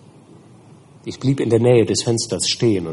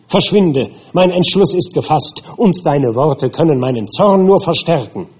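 higher and louder, firm and resolute; angry defiance; 4 semitones higher, 4 dB louder than usual. Acted. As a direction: stand up to the monster with rising anger. Victor defies the creature.

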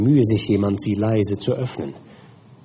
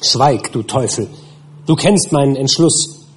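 higher and louder, furious rebuff; shouting; 4 semitones higher, 4 dB louder than usual. Acted. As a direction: hurl it back at the devil. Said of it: "schrie ich".

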